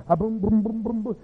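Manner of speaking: quick rhythmic string of booms; imitated thumping booms. Pastor shouting and dancing at home, imitated thumping. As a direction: mimic feet pounding out a beat. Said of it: "He's shouting again".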